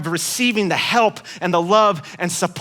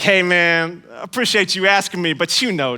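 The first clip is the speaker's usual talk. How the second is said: hammed-up reluctant friend. Churchless friend declining invite.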